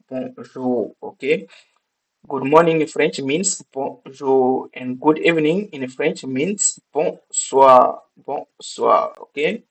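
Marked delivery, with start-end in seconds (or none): 0.1-0.9 "bonjour" split into two separate syllables, softly; syllable-by-syllable model. Shown as a demonstration. Teacher repeating a French greeting for learners, "bonjour" carefully syllabified. 8.2-9.2 "bonsoir" in two spaced syllables, lower; syllable-by-syllable model. Shown as a demonstration. Teacher modelling French good evening for learners, "bonsoir" carefully syllabified.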